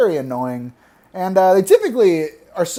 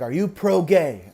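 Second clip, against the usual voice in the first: put-on mom repeating it firmly, light Filipino accent; thick Filipino accent; slower than usual. Mom repeating her question to her son, light Filipino accent. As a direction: ask it more pointedly, lightly Filipino-accented. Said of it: "she has a really thick accent".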